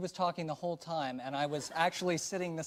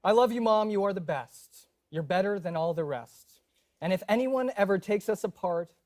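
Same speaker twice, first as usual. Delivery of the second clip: dramatic poem reading; 3 semitones higher, 5 dB louder than usual. Pretend.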